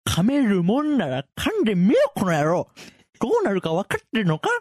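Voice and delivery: loud, high, menacing taunt; angry threat. Acted. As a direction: dare him, furious. Acted threat, take one.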